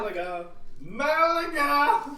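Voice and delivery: loud high robotic call; robot voice yelling. Acted. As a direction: yell out like a robot. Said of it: "yelling at you in a robot voice".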